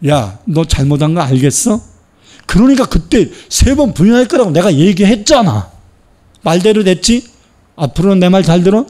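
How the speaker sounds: mock scolding. Imagined Jesus scolding Peter, mock reproach. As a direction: scold like a know-it-all.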